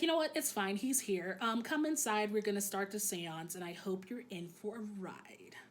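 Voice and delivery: a hint of forced politeness through gritted teeth, sinking to a whisper at the end. Kazuha grudgingly welcomes the boyfriend in, through gritted teeth. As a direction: grit your teeth and fake a welcome. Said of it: "he says that through gritted teeth".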